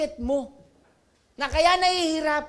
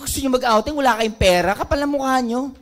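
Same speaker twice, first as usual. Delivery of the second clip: scolding shout; 9 dB louder than usual. Retold or imitated. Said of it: "Sabi ko".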